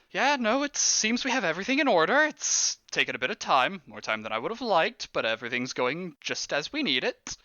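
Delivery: businesslike conspirator with lifts in pitch; a hint of an overheard ritual organizer; lightly voiced cultist. Cultist updating someone on the ritual, lightly acted report.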